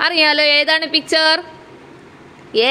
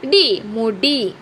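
slowly blended; 3 semitones lower, much slower than usual. Shown as a demonstration. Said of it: "ഉകാര ചിഹ്നം".

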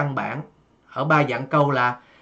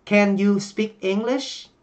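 "Can you speak English?" slow, rising at the end; slow question, lift it at "English"; rising question tune; 5 semitones higher, slower than usual. Shown as a demonstration. Teacher showing the rising question intonation, slow. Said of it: "Chúng ta sẽ lên giọng ở cuối câu".

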